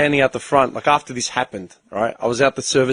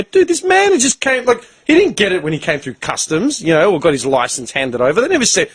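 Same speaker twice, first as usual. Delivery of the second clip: heated protest; 6 semitones higher than usual. Retold or imitated. Retold heated argument with council.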